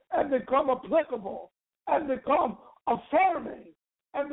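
rising, fervent preacher cadence; preaching. Acted. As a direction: build the preaching up. Preaching building to full force.

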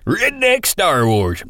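"Redneck Star Wars" drawn out slowly and high in a redneck twang; redneck accent. Shown as a demonstration. Host restating the episode title in a redneck drawl. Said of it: "I mean".

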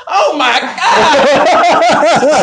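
very high, loud, drawn-out gasp through laughter; mock shocked shriek. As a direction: shriek it like a startled cleaner. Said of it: "just like".

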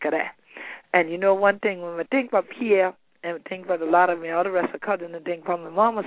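Gullah Geechee creole speech. Real, not acted. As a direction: speak in Lowcountry Gullah. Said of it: "So let me speak this way for you".

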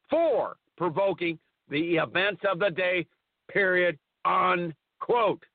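reading aloud, saying every comma and period; dictating. Acted. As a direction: dictate the article, punctuation spoken. Reads article with punctuation aloud.

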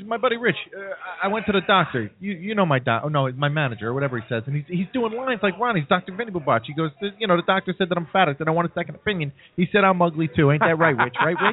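a hint of a desperate hack comic doing Rodney lines; mimicking pushy comic. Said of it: "He says to Richie, he goes".

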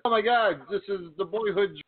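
high mocking fan voice; sarcastic fake rapture; gushing fans. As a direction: imitate an overjoyed fan, pitched right up. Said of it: "all these Yoshihashi fans".

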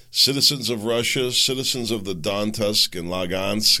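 measured address to the nation; deliberate public oration; formal speech reading. Acted. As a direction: read out a translated state speech in your own voice. Reads Putin's speech in own voice.

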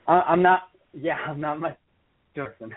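phone line dropping words; choppy cutting-out call; corrupted glitchy audio. Real, not acted. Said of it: "the audio is cutting out".

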